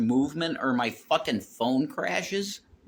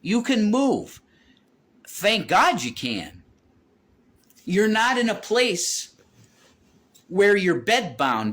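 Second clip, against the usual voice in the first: pleading; 9 semitones higher, 4 dB louder than usual. Retold or imitated. Husband urging his wife off the couch, high and loud. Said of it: "And it's like".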